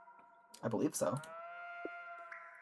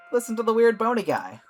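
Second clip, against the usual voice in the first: amused; 10 semitones higher, 9 dB louder than usual. Real, not acted. Still amused, teasing.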